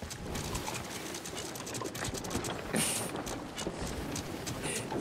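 quiet, wordless wheezing laughter; long helpless laugh. Real, not acted. Player laughing as whole crew burns again, helpless laughter. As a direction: laugh breathlessly for several seconds.

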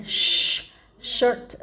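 "shirt" with a long hissed SH and curled R; SH sound. Shown as a demonstration. Teacher shows children the SH in shirt. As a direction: hiss the SH in "shirt" before the vowel. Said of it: "chữ S H này".

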